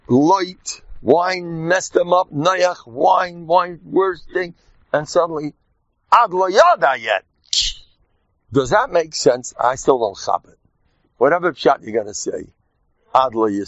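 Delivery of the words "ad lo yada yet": excited. Real, not acted. Proclaiming the Purim rule.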